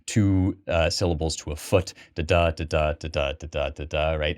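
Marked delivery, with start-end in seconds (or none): 2.1-4.1 da da da tapped out as a steady beat; iambic rhythm. Shown as a demonstration. Lecturer demonstrates iambic rhythm to students, steady tapped beat. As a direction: count out the meter. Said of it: "which is iambic pentameter".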